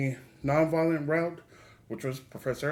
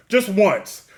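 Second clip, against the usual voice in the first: loud, high, insistent begging; mock pleading; 5 semitones higher, 8 dB louder than usual. Host begs to hear Sir Ian McKellen, mock pleading. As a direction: plead for it with comic urgency. Comic plea for one imagined line.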